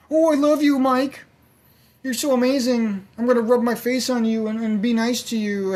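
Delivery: high, sugary voice of a fawning animal; fawning pet voice. Retold or imitated. Voicing a pet who loves you for chicken, high and sweet. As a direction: coo like a pet begging for food.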